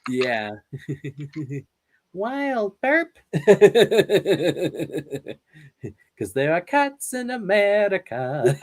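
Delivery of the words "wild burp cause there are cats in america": put-on high child mouse voice; Fievel voice. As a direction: squeak it like little Fievel. Quoting Fievel lines in voice.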